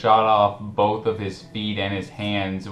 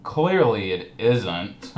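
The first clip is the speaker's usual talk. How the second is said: slow, dry mocking retort; much slower than usual. Host mocking the commentator in his last comment, slow and dry. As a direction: drag it out to mock him. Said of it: "I'm kinda mocking him".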